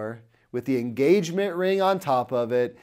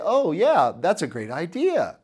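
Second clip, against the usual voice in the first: bright mock-enthusiastic yes-man voice, higher and louder; eager agreement; 5 semitones higher, 5 dB louder than usual. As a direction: play the easy cheerleader who loves every idea. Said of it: "people who just want you to say".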